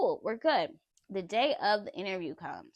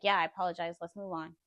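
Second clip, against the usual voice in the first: stone cold; 2 semitones lower than usual. Retold or imitated. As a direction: imitate an unfeeling brush-off. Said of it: "she's stone cold".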